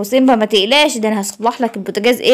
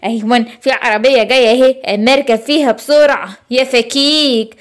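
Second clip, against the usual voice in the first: sneaky thief. Acted. Thief escapes in car.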